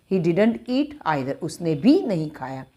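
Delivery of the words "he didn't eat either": every word spaced slowly for writing; slow and clear for students to copy; slow dictation. Shown as a demonstration. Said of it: "he didn't eat और either लगा दो".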